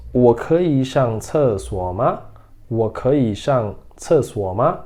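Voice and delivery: very slow, every syllable clear; slow model reading. Shown as a demonstration. Teacher modelling the sentence for students, very slow. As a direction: read it slowly for students to repeat. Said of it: "vamos para a leitura".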